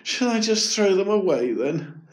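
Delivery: put-on high, disappointed child's question. A narrator's reading. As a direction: ask it dejectedly, ready to give up. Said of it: "dreadfully disappointed".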